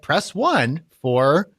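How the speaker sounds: very slow automated menu voice; robotic phone menu. Retold or imitated.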